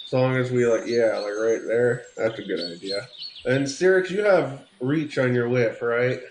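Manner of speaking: General Patton voice, pipe between teeth; pipe in mouth. Pretend. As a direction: talk around a pipe stem. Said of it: "I'm gonna take that pipe out of my mouth".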